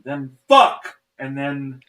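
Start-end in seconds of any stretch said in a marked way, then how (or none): 0.5-1.0 retold curse. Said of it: "I hear".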